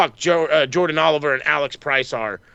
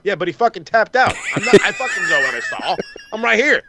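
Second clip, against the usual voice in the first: raised, fast indignant shout; 3 semitones higher than usual. Real, not acted. Fan shouting at the commentators about the tap-out, indignant. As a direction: yell it back at the screen, fed up.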